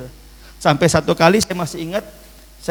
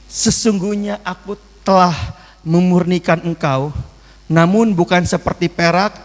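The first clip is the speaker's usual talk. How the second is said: scripture reading; 2 semitones higher than usual. Acted. Preacher reads the verse aloud to the church, solemnly. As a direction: proclaim the verse to the congregation.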